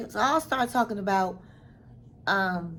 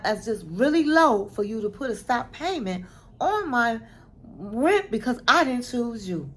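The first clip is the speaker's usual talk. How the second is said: telling off. Retold or imitated. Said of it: "Annie was just let her have it".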